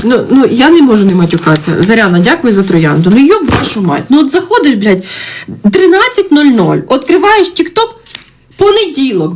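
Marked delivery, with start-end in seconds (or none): 3.1-9.3 higher, fed-up mocking rant; exasperated rant. Real, not acted. Streamer venting at viewers, exasperated and higher. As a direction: vent at the silly question, pitched up.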